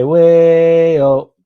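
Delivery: loud, high hype call; hype shout. Acted. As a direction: belt it out like a hype man.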